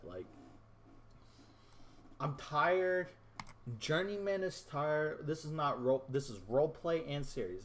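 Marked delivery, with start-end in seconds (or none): 2.2-5.3 raised-pitch exasperated complaint; frustrated. Real, not acted. Gamer fed up with his school losing every year, frustrated. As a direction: vent like you are fed up. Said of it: "I'm just so frustrated".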